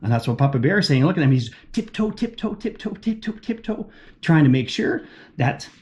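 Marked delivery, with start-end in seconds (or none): 1.7-3.9 softer, higher, sneaking quietly; hushed tiptoe. A narrator's reading. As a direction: hush it like tiptoeing past a sleeper. Tiptoeing bear, reading aloud.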